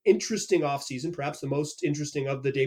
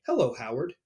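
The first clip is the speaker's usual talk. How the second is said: calm formal hello; 5 semitones lower, 4 dB quieter than usual. Retold or imitated. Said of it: "looks at you very calmly and says".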